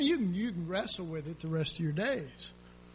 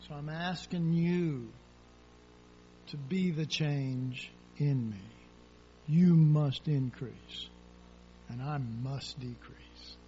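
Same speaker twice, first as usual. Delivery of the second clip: humble prayer; 4 semitones lower than usual. Pretend. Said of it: "We're saying".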